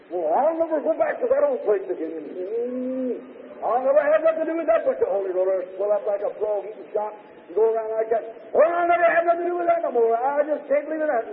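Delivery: a touch of indignant huffing, rising near the end; mild mock outrage from a proud captain; Naaman blowing up. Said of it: "And oh, did he blow up".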